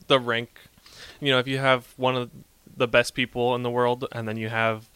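talking with chocolate in cheek; words round a bite of chocolate; mouth full. Real, not acted. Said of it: "I moved the chocolate back".

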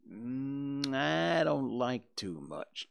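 slow, drawn-out hesitant reply; reluctant. Acted. Wary boy answering Tom's dare to go closer, reluctant. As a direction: hem and drag out the doubt.

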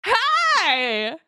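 calling from far away. Acted. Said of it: "I'm gonna yell over to the other players".

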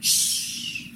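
soft unvoiced shh; shushing whisper. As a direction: hush it gently. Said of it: "it's like".

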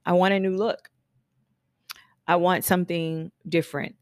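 firm, mildly assertive statement; declarative demand. Acted. Regulator client telling the stylist what they want, mildly declarative. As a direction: state it as a settled decision. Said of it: "Regulators speak in declarative sentences".

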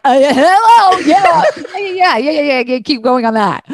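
high, laughing cheerleader voice; egging you on, high and giggly; body's eager voice. Retold or imitated. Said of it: "my body was like".

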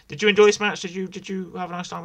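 excited question. Real, not acted. Eager question to co-host.

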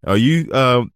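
lightly mocking her zealous question; mimicking the church lady. Quoting the children's pastor's question.

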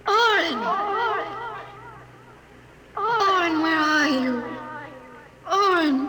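anxious calls echoing into the dark; calling out. Acted. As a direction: call out for him, searching and anxious. Searching the tunnels, calling out.

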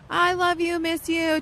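high, sing-song mock sweetness; lovey-dovey girlfriend. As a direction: imitate a cooing girlfriend on a video call. Imitates girl Skyping her boyfriend.

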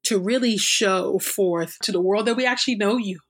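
fervent spoken prayer, rising in pleading; earnest prayer. Real, not acted. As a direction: pray aloud for the listeners, pleading. Spoken prayer after reading.

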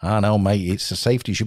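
lightly imitated Aussie instructor; Australian accent. Instructor explaining the rule to student, mock Australian accent. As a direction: put on a hint of Aussie to explain. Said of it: "that's my Australian accent".

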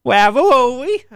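high, stretched mock-Italian cry; exaggerated Italian, slow and rising; stereotyped Italian. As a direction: parody an Italian, drawn out high. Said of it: "you're getting into stereotypes".

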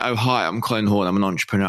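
lightly put-on posh introduction; posh accent. Podcaster mocking their own intro, lightly posh accent. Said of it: "I start off really posh".

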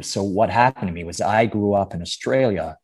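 Australian speaker doing American; American accent. Shown as a demonstration. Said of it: "an American accent for me".

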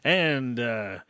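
a hint of game show host. Host holding index cards, mock game show host delivery. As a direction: lightly announce it like a quizmaster, halting. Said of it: "I feel like a game show host now".

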